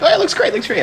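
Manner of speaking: high, knowing "looks great"; knowing mock approval. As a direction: play the guest who's in on the joke.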